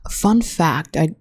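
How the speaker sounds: breathy whisper, half-joking; whispered aside. Real, not acted. Vlogger teasing a fun fact to viewers, whispered. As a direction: drop to a whisper like a secret. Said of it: "in that voice".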